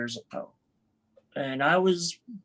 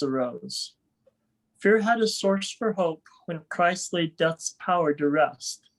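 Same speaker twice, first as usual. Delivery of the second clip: measured poem recital with pauses between lines; poem reading. Acted. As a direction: read it out line by line, each falling to a close. Reads own poem aloud.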